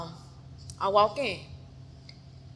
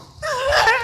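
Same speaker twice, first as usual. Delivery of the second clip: attacker's scream; 8 dB louder than usual. Retold or imitated. Acts out striking back screaming.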